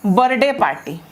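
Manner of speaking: "बर्थडे" as bar-day, th missing; wrong demo, "बर्थडे" without th; common mispronunciation. Shown as a demonstration. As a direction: swallow the th in "बर्थडे". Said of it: "ये बर्थडे party नहीं है".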